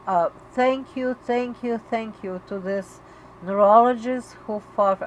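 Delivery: real tears welling as she thanks him; choking up. Real, not acted. Mother thanking daughter's neurologist, voice breaking with tears. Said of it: "I wanna cry".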